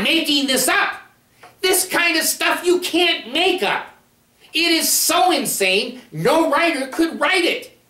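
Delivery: rising indignant insistence; impassioned rant. Real, not acted. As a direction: plead with fervor. Passionate plea to viewers.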